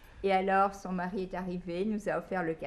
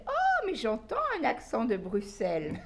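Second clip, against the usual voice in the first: laughing quote; 5 semitones higher, 3 dB louder than usual. Retold or imitated. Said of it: "il a dit".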